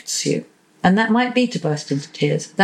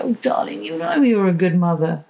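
reassuring partner. Retold or imitated. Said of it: "waiting for the other person to step in and go".

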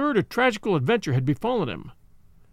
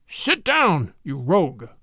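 sudden harsh bark; slower than usual. Acted. Old gentleman barks at defiant Denis to sit down, harsh shout. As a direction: snap it out like a dog's bark. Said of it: "cried the old gentleman, in a sudden, harsh voice, like the barking of a dog".

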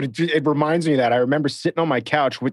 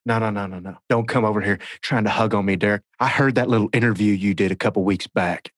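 a hint of a huffy refusal; imitating Brad; 3 semitones lower than usual. Derek retells Brad refusing a hug, mild put-on huff. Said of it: "you go".

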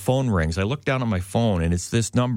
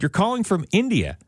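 retold challenge; 9 semitones higher than usual. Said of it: "I said".

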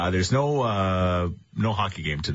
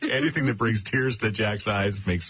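laughing; slower than usual. Real, not acted. Laughing at Jack's tears.

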